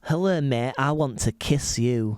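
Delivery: slow, put-on Hull come-on; Hull accent. Host showing the sexiest accent, flirty mock Hull. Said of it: "Hull is the sexiest accent".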